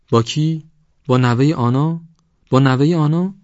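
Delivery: high, loud rising questions; shrieked disbelief. A narrator's reading. Wife shocked by husband's accusation, shrieking questions. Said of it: "جیغ کشید".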